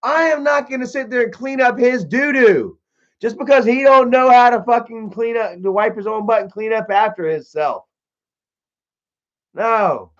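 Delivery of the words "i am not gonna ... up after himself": high, heated mock protest; defiant retort. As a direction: snap back at mom like a teen. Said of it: "And I'm like".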